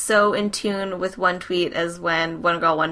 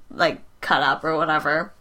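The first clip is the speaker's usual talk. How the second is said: usual speaking voice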